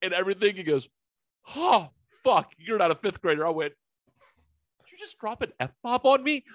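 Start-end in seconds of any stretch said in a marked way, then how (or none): 1.6-3.4 put-on high, startled old usher's outburst; startled curse. 4.8-6.4 much higher, incredulous question; shocked question. Retold or imitated. Retold own shocked reply.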